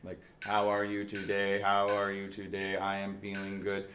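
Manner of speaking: flat, even, slow robotic speech. Shown as a demonstration. Teacher imitating a robot to show missing expression, slow and even. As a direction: say it like a robot with no inflection. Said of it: "a robot and you just have it speak words".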